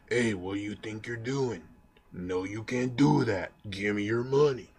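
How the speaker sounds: a hint of a street tough demanding money; tough guy. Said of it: "just a tough guy saying".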